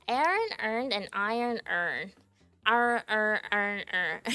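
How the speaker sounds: imitated Baltimore vowels, words merging into "urn"; Baltimore accent. Repeating a viral accent video, Baltimore accent. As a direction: squash each word into a Baltimore "urn". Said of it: "the Baltimore accent".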